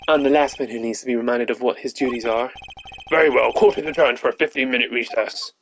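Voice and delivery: character voice acting. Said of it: "after doing all these voices".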